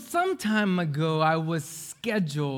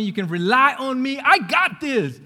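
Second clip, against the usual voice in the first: loud, cocky reassurance; overconfident; 4 semitones higher, 4 dB louder than usual. Acted. Grandson promising grandma he's reliable, loudly overconfident. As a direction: boast it higher and louder, stretching the end.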